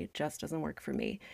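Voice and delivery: soft, final, polite no; quiet firm refusal. Shown as a demonstration. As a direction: say it quietly and close the door. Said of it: "being invited to a party".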